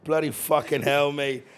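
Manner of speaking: put-on slow, amateur British accent; fake British accent. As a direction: attempt a drawn-out British curse. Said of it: "Uh, I'ma try".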